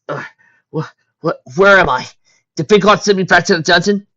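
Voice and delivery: dazed, stammering waking voice; groggy moaning. A narrator's reading. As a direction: come round, still half out. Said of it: "Moaning quietly".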